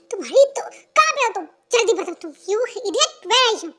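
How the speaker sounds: high, loud furious scolding; angry yelling. Acted. Girlfriend yelling at Jungkook for hiding, furious shout. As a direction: demand an answer, seething.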